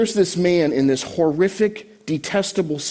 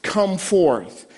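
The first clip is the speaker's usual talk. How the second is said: drawn-out call into a tomb, pitched up; restrained acted yell, raised and stretched; mild mock yell; 4 semitones higher, much slower than usual. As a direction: call out slowly to someone far off. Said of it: "he yells out into the tomb".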